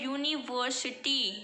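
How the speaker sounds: यूनिवर्सिटी with a 'yu' consonant sound at the start; pronunciation demo. Shown as a demonstration. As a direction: say यूनिवर्सिटी clearly, opening on a 'y' glide. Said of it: "इसका pronunciation क्या हो रहा है". (यूनिवर्सिटी का उच्चारण, शुरू में 'य' की ध्वनि)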